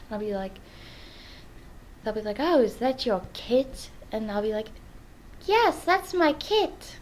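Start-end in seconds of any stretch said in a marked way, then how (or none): 2.4-3.9 attempted American accent. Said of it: "saying kit in an American accent". 5.5-7.0 high, slow attempt at an American accent, "kit" for cat; failed American accent. Answering about the pet, failed American accent. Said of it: "have a hard time saying kit".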